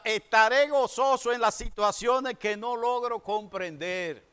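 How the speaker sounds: "Estaré gozoso" read slow and strong, preaching over the music; proclaimed verse. Shown as a demonstration. Pastor reading the verse to the church, slow proclaimed preaching. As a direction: lift the promise up slowly like a declaration. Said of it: "la otra".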